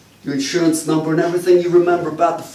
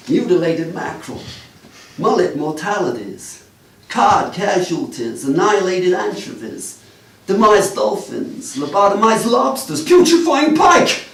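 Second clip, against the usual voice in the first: building list; 3 semitones higher than usual. Acted.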